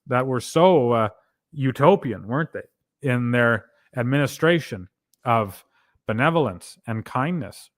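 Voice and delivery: mildly sarcastic, mock admiration. Real, not acted. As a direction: say it with dry, understated irony. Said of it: "that was sarcasm".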